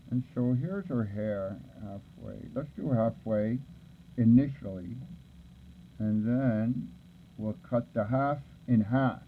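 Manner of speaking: talking around a pencil held in the teeth; words muffled by a pencil between the teeth; pencil in mouth. Real, not acted. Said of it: "I'm talking to you with a pencil in my mouth".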